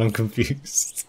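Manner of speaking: slow, breathy whisper. Real, not acted. Gamer baffled by a cutscene, slow whisper.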